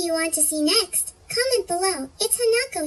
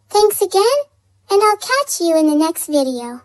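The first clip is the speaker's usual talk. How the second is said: louder outro; 6 dB louder than usual. Shown as a demonstration. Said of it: "same outro repeated louder".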